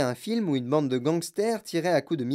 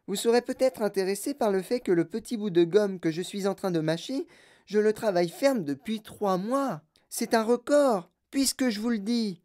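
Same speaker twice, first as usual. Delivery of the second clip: put-on bratty girl voice; 4 semitones higher than usual. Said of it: "elle mâchait du chewing-gum".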